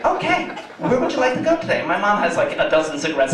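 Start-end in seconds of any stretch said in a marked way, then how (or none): 0.0-1.8 high phone-agent voice; Julie. Retold or imitated. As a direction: imitate an eager automated booking assistant. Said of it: "Julie's just like".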